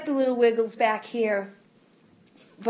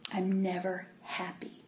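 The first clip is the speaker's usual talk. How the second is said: sad; 9 dB quieter than usual. Real, not acted. Confessing unhappiness.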